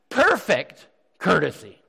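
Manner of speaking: Perfect hit loud and drawn out, then courtesy set apart; stress on Perfect. Shown as a demonstration. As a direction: punch "Perfect" slowly and firmly. Corrects listeners by re-quoting the verse.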